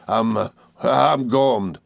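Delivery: slow, emphatic I'm gormed; gormed stretched out slowly with weight; sudden emphasis. A narrator's reading. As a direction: land hard on gormed. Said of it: "with sudden emphasis".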